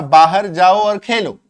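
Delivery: loud, slow demo of a parent's order; example command. Shown as a demonstration. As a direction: call it out like a parent sending kids outside. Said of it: "जैसे कि मान लो अगर बोलना है".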